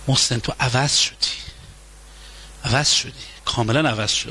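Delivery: hurt accusation. Acted. Wife accuses changed husband.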